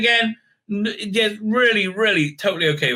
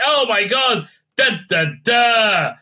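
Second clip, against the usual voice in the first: mock shock; 4 semitones higher, slower than usual. Reviewer mocking the show's dramatic reveal, mock shocked shout. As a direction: ham up the big reveal.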